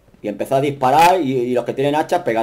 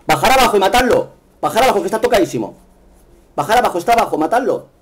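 urgent, raised shouted orders; raging gamer; 5 semitones higher than usual. Real, not acted. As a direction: yell at teammates to finish him. Gamer urging team to kill. (gamer furioso gritando órdenes)

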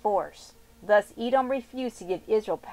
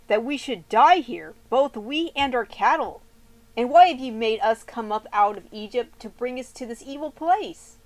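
loud, bitter grumbling crowd; a crowd quarreling, louder and aggrieved; angry complaint; 3 semitones higher, 6 dB louder than usual. Acted. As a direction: hurl the complaint at Moses. People quarreling with Moses.

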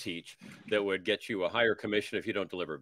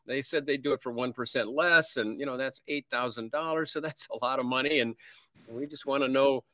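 higher, hesitant apologetic voice; timid sellers; 4 semitones higher than usual. Retold or imitated. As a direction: tiptoe into asking for a cut. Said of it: "almost afraid to ask".

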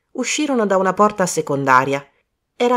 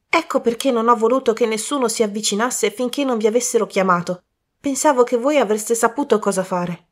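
put-on higher, urgent young man's voice; a worried youth bursting in; young man Colin; 5 semitones higher than usual. A young man waking Poirot, raised and anxious.

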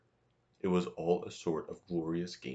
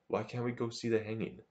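roaring; 5 semitones higher than usual. A narrator's reading. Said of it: "roared the boy in his huge voice".

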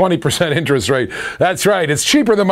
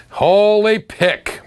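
slow, higher, savouring the exclamation; drawn-out holy; 5 semitones higher, much slower than usual. Real, not acted. Showing the sixty-five Mustang to viewers, drawn out with delight. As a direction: stretch it out in delight. Car shown at the auction.

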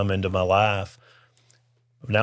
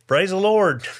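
high, louder joyful praise; 9 semitones higher, 4 dB louder than usual. Retold or imitated. The young man answers the radio preacher with joyful praise. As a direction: shout it up with joy. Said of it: "And I did".

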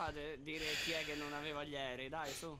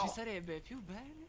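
Pope Francis impression; 4 semitones higher, slower than usual. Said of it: "Mi sembra Papa Francesco".

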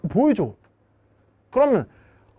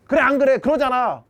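usual speaking voice

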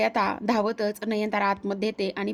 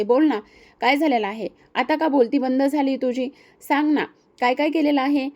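louder, pushing questions at her daughter; demanding mother; 3 semitones higher, 3 dB louder than usual. Acted. Nayantara demands answers from Praju, louder and pushing. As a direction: press her for an answer, rising on the last demand.

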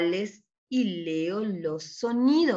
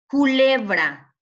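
CULEBRA loud, slow and higher, syllables stretched; sounding out; 4 semitones higher, 7 dB louder, slower than usual. Shown as a demonstration. Teacher reading the word so pupils judge its sound, slow. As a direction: sound out "Culebra" slowly and loudly.

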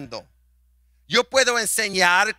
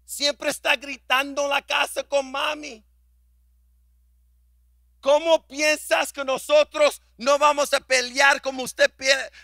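raised, higher voice of the daughters; daughters reproaching; 5 semitones higher than usual. Retold or imitated. Pastor voicing his daughters throwing it back at him. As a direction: hand the blame back to dad.

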